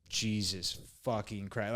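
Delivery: low, slow exasperated mutter; pissed off. Retold or imitated. Traveler hears he must file a bag claim, quiet exasperation. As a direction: curse under your breath, drawn out and weary. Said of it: "now I'm pissed".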